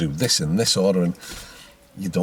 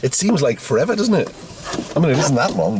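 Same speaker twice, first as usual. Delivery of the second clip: laughing; 6 semitones higher than usual. Real, not acted. Laughs at learner's remark.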